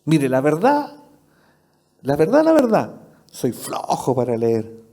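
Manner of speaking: lightly voiced lazy believer owning up; a hint of a sheepish churchgoer admitting laziness; sheepish confession. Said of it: "¿Y esa excusa para qué?".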